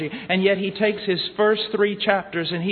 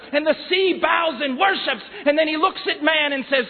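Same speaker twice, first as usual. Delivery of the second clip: preaching at full force; 8 semitones higher than usual. Acted. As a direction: thunder out God's commands over creation like a revival preacher. Preaching crescendo on creation.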